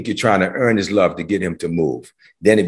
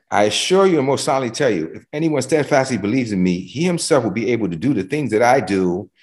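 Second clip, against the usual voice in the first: quicker, a little higher reading of the verse; brisk amplified reading; 4 semitones higher than usual. Shown as a demonstration. Preacher rereads the amplified verse to the congregation, brisker.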